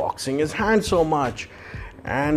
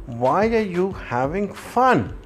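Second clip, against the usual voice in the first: scolding coaches; 5 semitones higher than usual. Acted. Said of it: "both the coaches tell them".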